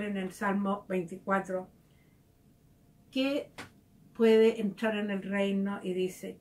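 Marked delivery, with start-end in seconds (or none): none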